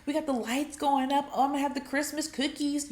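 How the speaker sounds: lightly acted giddy excitement; excited. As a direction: bubble over with holiday plans. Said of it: "You get excited".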